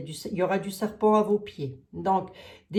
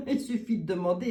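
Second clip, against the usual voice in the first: repeated through a real laugh; faster than usual. Real, not acted. Repeating her answer to the viewers, laughing. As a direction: laugh while saying it.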